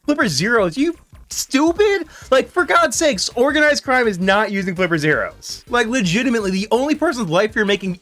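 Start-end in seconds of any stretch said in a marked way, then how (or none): 0.8-5.6 wild unhinged ranting. Real, not acted. Ranting at officials.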